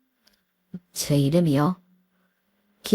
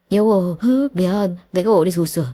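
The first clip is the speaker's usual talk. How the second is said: pleading husband; 3 semitones higher than usual. Acted. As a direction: beg her forgiveness. Husband begs forgiveness.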